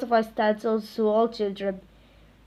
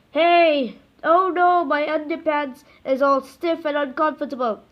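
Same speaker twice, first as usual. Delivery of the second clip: mock panic; 5 semitones higher, 5 dB louder than usual. Hero panics, underpants stiff.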